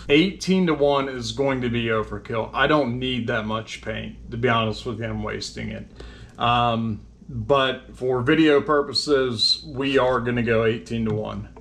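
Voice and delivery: whistling S sounds; S's whistle through dental gaps; no front teeth. Real, not acted. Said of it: "overlook the whistling when I say my S's".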